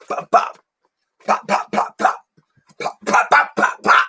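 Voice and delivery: rapid popping "pap pap" bursts; imitated punch sounds. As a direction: mouth the sound of jabs landing. Imitates punches while talking about boxing.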